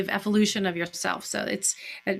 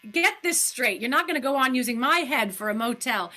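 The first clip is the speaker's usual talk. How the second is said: deadly serious, not played as a joke; serious delivery; 2 semitones higher than usual. Shown as a demonstration. Daisy tells the doctor she's done, in dead earnest. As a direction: tell him off dead straight. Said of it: "You don't play it like a joke".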